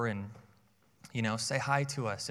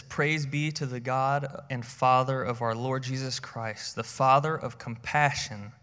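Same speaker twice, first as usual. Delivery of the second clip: scripture reading; 4 dB louder than usual. Acted. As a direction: read the verse with reverent weight. Reads scripture aloud.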